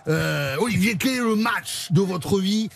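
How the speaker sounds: put-on a light southwest French accent for a rugby-style interview. Host interviews the actor in a mock southwest rugby accent. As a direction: ask it like a rugby reporter from the southwest. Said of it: "je vais la faire avec l'accent".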